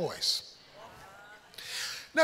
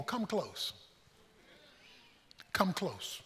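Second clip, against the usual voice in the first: much softer, gentle call; soft invitation; 5 semitones lower, 12 dB quieter, slower than usual. Acted. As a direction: draw them in close and quietly. Elijah calling people near.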